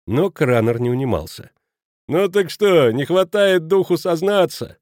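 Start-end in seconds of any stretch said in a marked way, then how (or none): 2.1-4.8 higher, louder, drawn-out taunt; teasing. A narrator's reading. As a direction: needle him to confess. Kraner teasing.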